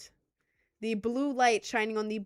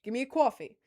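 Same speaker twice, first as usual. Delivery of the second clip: put-on New York accent; faster than usual. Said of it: "some people would walk in and be like".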